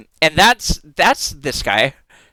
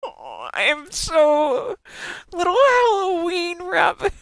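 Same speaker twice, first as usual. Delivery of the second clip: cutesy squealing; 12 semitones higher, slower than usual. Real, not acted. Streamer gushing at a bunny-pumpkin fusion, high squealing baby talk. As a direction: coo at it like a tiny pet, much higher and dragged out.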